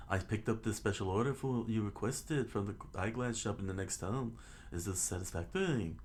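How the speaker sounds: lightly done British butler; a hint of put-on British politeness; fake British voice. Butler Mary hands over a special order, fake British voice. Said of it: "I'll give him fake British voice".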